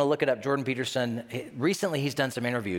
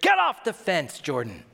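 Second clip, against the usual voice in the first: louder, higher plea; urging call; 4 semitones higher, 3 dB louder than usual. Retold or imitated. Commenters shouting at Jordan, urging loudly. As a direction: call him off the fence. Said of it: "people are like".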